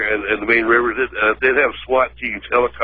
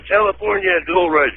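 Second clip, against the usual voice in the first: mock excitement; 8 semitones higher than usual. Mocking web hype.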